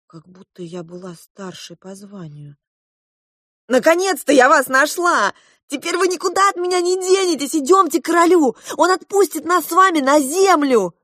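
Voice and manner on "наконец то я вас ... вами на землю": high, loud and fast eager outburst; excited. A narrator's reading. Princess urging found parents to the king, excited and loud. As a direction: bubble over with joy and urgency.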